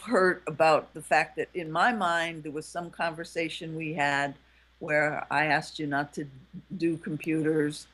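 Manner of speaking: low-key, tender appeal to a partner. Acted. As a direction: gently own up to a hurt. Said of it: "you're coming from a softer voice".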